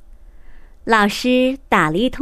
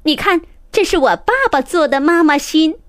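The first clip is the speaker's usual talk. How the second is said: proudly; 4 semitones higher, 4 dB louder, faster than usual. Acted. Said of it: "他很得意地对小苹果说".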